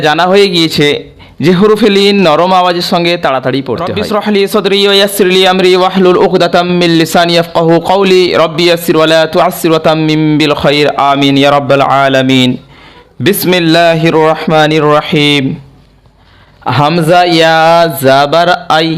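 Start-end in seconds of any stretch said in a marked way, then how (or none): 3.9-12.5 intoned prayer on a level pitch; Arabic prayer recitation. Acted. 13.3-15.4 slow, drawn-out bismillah; Quranic recitation. Acted.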